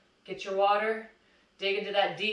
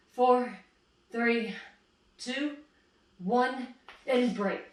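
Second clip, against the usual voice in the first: energetic countdown; 4 semitones higher, much slower than usual. Real, not acted. Fitness coach to class, counting down the final seconds with energy. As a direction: pump the class up through the last seconds.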